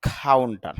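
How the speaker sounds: কাউন্টার with an aspirated kh and a dropped final r, "khaunta"; English pronunciation. Shown as a demonstration. Teacher shows students the English way, aspirated k. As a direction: start কাউন্টার with a breathy k and let the r fall away. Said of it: "তখন উচ্চারণটা হবে".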